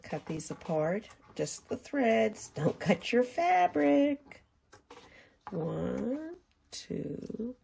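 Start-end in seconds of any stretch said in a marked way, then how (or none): 1.3-4.4 slow, high, deliberate warning; a slow, emphatic caution against cutting the fabric; careful emphasis. Shown as a demonstration. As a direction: spell out each word slowly so they take care. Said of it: "I emphasize the word carefully".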